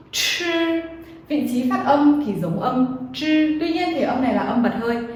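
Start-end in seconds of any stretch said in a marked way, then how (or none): 0.1-0.8 "chư" as a single clear demo syllable; model syllable. Shown as a demonstration. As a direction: say "chư" slowly for students. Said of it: "Âm tiếp theo". (đọc mẫu "chư" rõ ràng)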